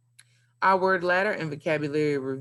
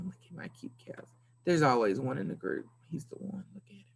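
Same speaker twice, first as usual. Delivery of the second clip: whispering; 6 dB quieter than usual. Real, not acted. Whispering about the cows.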